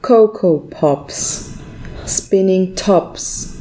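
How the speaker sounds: slow, deliberate ad rhyme; slow jingle recital. Shown as a demonstration. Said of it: "Ausschnitt aus einer Coco Pops Werbung". (langsam vorgetragener Werbereim)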